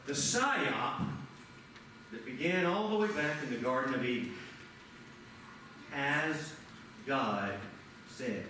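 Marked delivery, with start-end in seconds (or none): 5.9-8.4 low, hushed and slow like the sly serpent; serpent's whisper. Retold or imitated. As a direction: breathe it softly, a tempting snake. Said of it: "that the serpent said".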